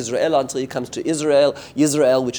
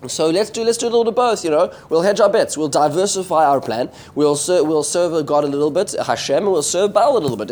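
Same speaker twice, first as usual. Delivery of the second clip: higher-pitched, casual proposal; mock wheedling, pitched up; imitated bet-hedgers; 4 semitones higher than usual. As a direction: lightly act out someone talking others into a compromise. Voicing the people hedging their bets.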